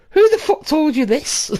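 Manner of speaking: high, slow, disbelieving question; retold incredulity. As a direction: demand it in drawn-out disbelief. Retold reaction to shocking news.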